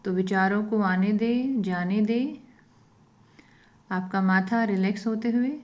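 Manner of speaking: unhurried phrases, leaving silence after each instruction; guided meditation. Real, not acted.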